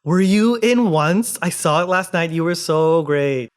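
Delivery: acting out an excited admirer; gushing fan.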